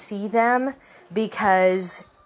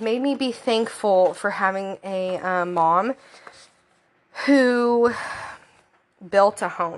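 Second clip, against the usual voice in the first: teary, fighting off crying. Introducing book three of a reading list, holding back tears. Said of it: "I'm trying not to cry".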